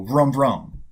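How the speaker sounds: revving motor noise, vroom vroom; playful little engine rev. Shown as a demonstration. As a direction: make a dirt bike engine sound. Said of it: "the first main sound that I made".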